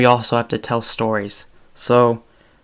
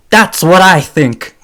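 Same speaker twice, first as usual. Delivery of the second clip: higher, louder yell, slow and drawn out; yelling catchphrase; 6 semitones higher, 9 dB louder than usual. Retold or imitated. Imitating Andrew Dice Clay's yelled sign-off. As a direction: shout the comedian's closing line. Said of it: "Sorry for yelling".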